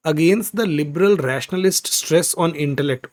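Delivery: each word read out slowly. Shown as a demonstration. Teacher reads the passage slowly to the class. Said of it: "आगे".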